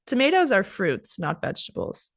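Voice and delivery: correcting someone smugly; know-it-all correcting a friend; condescending. Shown as a demonstration. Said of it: "I'm being a little condescending".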